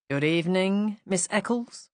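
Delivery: courteous on the surface, accusing underneath; a hint of accusation under polite manners; polite yet accusatory. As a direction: greet her politely but let the suspicion show. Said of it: "in a tone that somehow managed to be both polite and accusatory".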